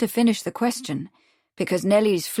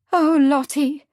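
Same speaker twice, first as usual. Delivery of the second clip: higher and louder anguished cry; bursting out; 7 semitones higher, 6 dB louder, slower than usual. A narrator's reading. Nellie bursting out to Lottie, louder and higher. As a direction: blurt it, unable to hold it in. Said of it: "Nellie burst out".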